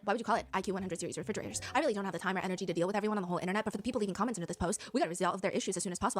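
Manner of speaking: flat, fast, lightly voiced angry influencer; monotone influencer. The influencer berating Siemens at his press conference, fast flat monotone. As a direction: rattle off the rant, fast and barely passionate. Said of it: "Everything is monotone".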